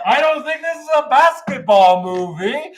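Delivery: loud, high-pitched mock disbelief; astonished realisation. Moviegoer realising what Magic Mike is, loudly astonished. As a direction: exclaim it as the truth dawns. Acting his realisation during the film.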